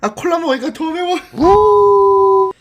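high pained cry of the heat; mouth burning from spicy food. Real, not acted. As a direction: yelp through a burning mouth. Cola made it spicier. (매워서 높게 비명 지르듯)

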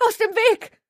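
very high, loud panicked scream. A narrator's reading. Gertie fleeing past Maxine and Shelley, screaming. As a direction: scream them out of your way. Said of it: "schrie sie".

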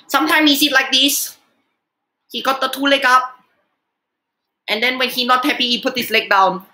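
lightly put-on accented comic uncle, broken English; lightly voiced catchphrase character; Uncle Roger. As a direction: do a hint of a scolding comic uncle. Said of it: "what I like to call the Uncle Roger thing".

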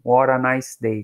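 What a nice day with the T of What as a quick R tap; What a nice day linked up, the T of What flapped; easy What a nice day, T of What like an R. Shown as a demonstration. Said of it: "como se esse T fosse um Rzinho".

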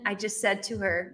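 ordinary delivery

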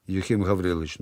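plain reading voice

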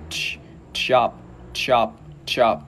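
"chop" with the tongue tip flicked off the front of the mouth; "chop" bật lưỡi ở phía trước. Shown as a demonstration. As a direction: say "chop", tongue snapping forward on the ch. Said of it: "lưỡi bật, bật ở, ờ, trước nha".

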